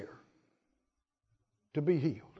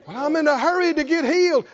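hurried, higher-pitched imitation; quick, pitched-up mock complaint; mock impatience; 4 semitones higher, faster than usual. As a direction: rush it like an impatient churchgoer. Mimics an impatient person seeking healing.

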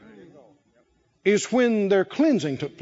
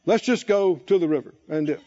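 lower, mock-pompous general; 6 semitones lower than usual. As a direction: play the general with a hint of self-importance. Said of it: "He might have said".

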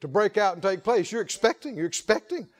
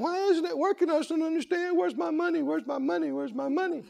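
higher, softer mock whine; mock crying; 7 semitones higher, 5 dB quieter than usual. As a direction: whimper like a let-down believer. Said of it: "And if you're crying, going".

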